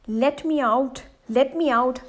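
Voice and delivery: mild begging; pleading. Acted. Trapped god begging the Brahmin again, mild weary plea. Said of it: "pleaded the god".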